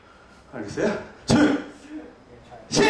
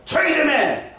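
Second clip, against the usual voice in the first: scolding hush; 6 semitones higher, slower than usual. Retold or imitated. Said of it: "왜 기도를 그렇게 요란하게?". (제자들이 조용히 하라고 꾸짖기)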